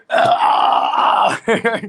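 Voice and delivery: loud, high mock guffaw; big hammed-up "ah" laughs; imitated mobster laughter. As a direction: roar out a fake mobster laugh. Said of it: "started laughing".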